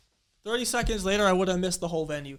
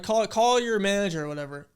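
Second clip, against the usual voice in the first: louder mock outburst, retelling a fight with a guard; retold angry demand; 4 semitones higher, 6 dB louder than usual. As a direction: demand the manager, half-hearted yell. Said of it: "So I get mad".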